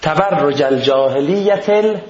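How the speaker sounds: slow, measured recited Arabic verse; Quran recitation. Acted. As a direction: recite the verse slowly and formally. Verse recited slowly again. (تلاوت آرام آیه)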